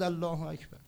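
mock warning cry; retold shouting.

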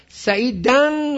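"سعیدن" slow and high, ending in a held -dan; "سعیدن" as sa'i-dan, stretched at the end; accusative ending. Shown as a demonstration. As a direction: stress the final -an of "سعیدن". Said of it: "مفعوله".

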